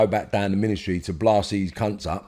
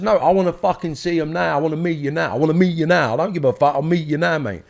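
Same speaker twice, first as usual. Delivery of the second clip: retold angry demand; 7 semitones higher than usual. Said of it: "I said".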